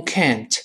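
slow "can't" with full "æ"; can't demo. Shown as a demonstration. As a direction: model "can't" slowly against "can". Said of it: "读快了t没了".

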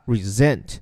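resent said re-ZENT, stress on the second syllable, S voiced as Z; careful pronunciation. Shown as a demonstration. Teacher showing morning-reading students how to say resent, clear and careful. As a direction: sound resent as ri-ZENT with a buzzing Z. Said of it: "发音的时候注意一下".

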